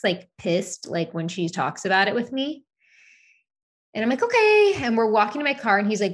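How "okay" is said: hesitante. Retold or imitated. Voicing her hesitant reply.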